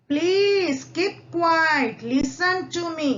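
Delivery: a class monitor asking the noisy class to hush, firm and slow. Acted. Monitor hushing the noisy class, slow and firm. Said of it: "वो क्या बोलता है".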